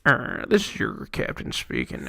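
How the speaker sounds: lazy captain announcement voice; pilot cockpit headset. Retold or imitated. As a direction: drone it like a distracted pilot.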